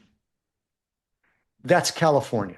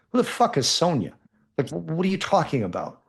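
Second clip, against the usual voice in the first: incredulous, higher-pitched demand; retold disbelief; baffled; 4 semitones higher than usual. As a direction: ask it in mock bewilderment, pitch jumping up. Baffled reply to stranger's confession.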